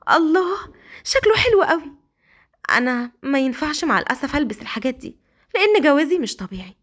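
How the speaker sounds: put-on wistful girl admiring a nightie; admiring wife. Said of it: "وكانت بتقول". (سيليا معجبة بالبيبي دول بصوت عالي)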